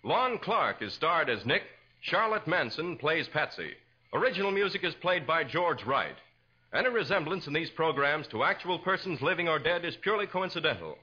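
formal, rolling announcer delivery; old-time radio credits read; radio announcer sign-off. Acted. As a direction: close the show like a vintage radio host. Announcer reads closing credits.

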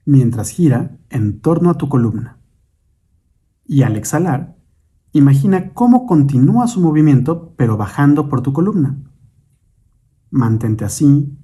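measured meditation guide, long pauses between instructions; guided meditation. Acted. Guide leads listeners in breathing and imagining light, guided meditation. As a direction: guide the listener unhurriedly through breath and imagery.

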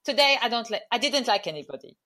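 put-on retry the Italian accent, half laughing. A second go at the Italian manager's accent. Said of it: "Still sounds Eastern European".

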